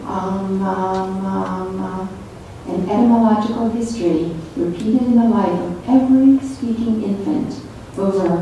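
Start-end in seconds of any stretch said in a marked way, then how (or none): 0.0-2.1 put-on soft sing-song "ma, ma" like a baby; baby babble. Shown as a demonstration. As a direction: coo "Ah, ma, ma, ma" like a baby. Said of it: "meaningful sound production".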